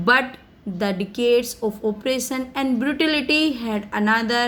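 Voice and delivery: slow, careful read of a speech text; slow reading aloud. Acted. Teacher reading Mandela's speech to students, slow and careful. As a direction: read each English word slowly for the class.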